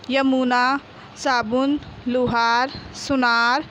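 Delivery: each word said clearly for pupils to repeat; clear drill words. Shown as a demonstration. Teacher to pupils, a clear word drill for repeating. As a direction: call out the word list like a teacher. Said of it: "मैं वापस से बोली हूँ, आपको भी उच्चारण कर कर के बोलना है".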